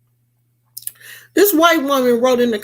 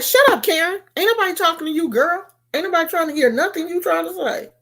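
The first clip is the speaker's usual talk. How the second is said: high, fast sassy telling-off; high mock clapback; sassy retort; 7 semitones higher, much faster than usual. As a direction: put her down, high and quick. Repeats telling Karen off.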